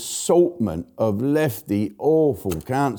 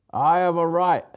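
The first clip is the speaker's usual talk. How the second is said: mock Japanese accent; 6 semitones higher than usual. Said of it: "playing a Japanese bloke".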